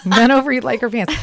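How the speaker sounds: teasing through a laugh. Real, not acted. Laughing, teasing repeat of friend.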